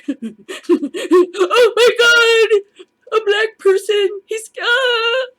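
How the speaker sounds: very high, loud, crying shriek of fake terror; mock panicked shriek. Mocking a trigger-happy officer, very high screaming panic. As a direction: scream it like a hysterical coward.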